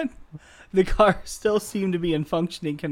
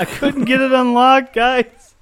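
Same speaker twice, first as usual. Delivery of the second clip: high, loud comic bear; 8 semitones higher, 7 dB louder, slower than usual. Pretend. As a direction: yell it like a stuck bear. Voicing the bear.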